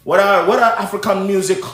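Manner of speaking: imitating an African accent, a bit clumsy; quoting in a self-admittedly poor African accent; mock African accent. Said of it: "sorry, my accent's gonna suck here".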